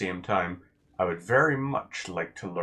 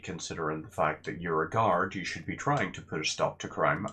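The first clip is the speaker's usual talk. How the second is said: ordinary talk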